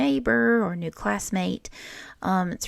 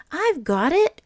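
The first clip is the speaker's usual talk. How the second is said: higher and louder call; cried out; 9 semitones higher, 7 dB louder than usual. Acted. Moose calls out to the soccer players, eager shout. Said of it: "cried Moose".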